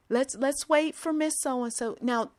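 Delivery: high, sugary fake-patient coaxing; overly sweet patronizing. Impatient young worker hiding frustration, syrupy coaxing. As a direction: coax her like a toddler. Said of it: "had to cover it up with".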